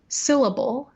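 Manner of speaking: syllable with first syllable high, then down; stress on first syllable. Shown as a demonstration. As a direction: lean on the SYL of syllable. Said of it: "I show that by pitch".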